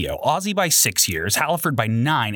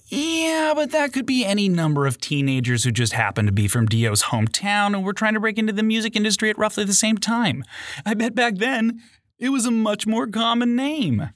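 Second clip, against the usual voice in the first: muffled, higher voice through a hand; muffled producer voice; 8 semitones higher than usual. Acted. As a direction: speak through a hand over your mouth. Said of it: "pretending to be the voice of a muffled in-studio producer".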